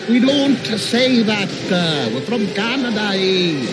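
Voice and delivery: made-up Canadian accent, hammed-up; mock Canadian accent. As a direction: put on a joking Canadian accent. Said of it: "That's Canadian".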